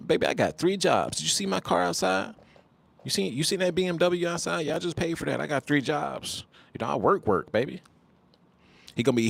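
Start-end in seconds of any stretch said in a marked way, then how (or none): 0.1-7.8 high, hammed-up bragging voice; bragging about three jobs and the car; mock baller brag. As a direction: show off to impress her. Flirting man brags about jobs.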